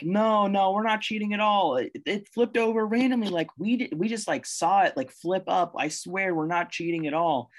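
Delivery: high, fast frantic denial; panicked monkeys denying. Acted. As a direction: squeal out the excuses in a rush. Monkeys voiced denying cheating.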